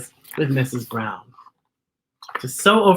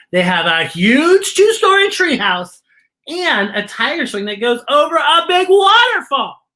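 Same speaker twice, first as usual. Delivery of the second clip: put-on eager child; 5 semitones higher, 5 dB louder than usual. A narrator's reading. Child describes treehouse eagerly.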